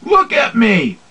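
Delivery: shrill demand hammed up; don't-do-this example shout; mock whiny shout. Shown as a demonstration. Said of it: "Don't go".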